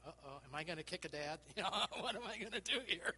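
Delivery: mock alarm breaking into laughter; amused mock worry; laughing panic. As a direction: chuckle through the uh-oh moment. Preacher's retold inner panic.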